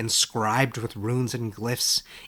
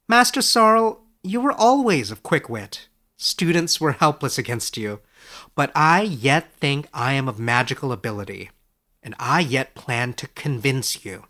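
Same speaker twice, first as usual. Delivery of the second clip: Edric's voice; 4 dB louder than usual. Acted. Edric teases his teacher.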